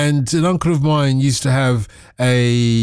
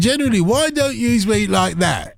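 mock Brummie; 7 semitones higher than usual. Teasing, still in Brummie.

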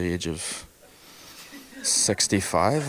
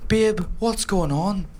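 put-on much higher, slow girly girlfriend voice; 10 semitones higher, slower than usual. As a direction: ask sweetly like a puzzled girlfriend. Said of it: "And she goes".

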